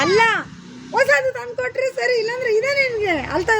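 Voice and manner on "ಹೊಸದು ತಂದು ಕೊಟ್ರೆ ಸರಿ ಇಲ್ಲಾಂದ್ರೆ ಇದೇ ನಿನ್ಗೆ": loud, high warning; demonstrated threat. Shown as a demonstration. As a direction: threaten loudly, pitched up. Director models threat for child.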